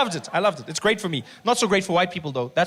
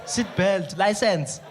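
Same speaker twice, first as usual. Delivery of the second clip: loud clipped list; cop shout; 4 dB louder, much slower than usual. Retold or imitated. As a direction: shout the offences. Cop listing offences.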